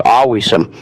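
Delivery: AWESOME with the first syllable dragged out a little; drawn-out feeling. Shown as a demonstration. Showing learners how pumped Americans say it, "awesome" drawn out. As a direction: say "awesome" with feeling, stretched a bit. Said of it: "we say it with feeling".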